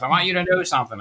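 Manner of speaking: lightly voiced mother; smoker mother's voice. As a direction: imitate mom with something important to say. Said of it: "I always wanna do her voice".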